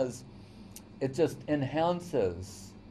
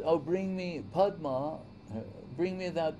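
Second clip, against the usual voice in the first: Krishna as husband asking; 5 semitones higher than usual. Retold or imitated. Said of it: "and said".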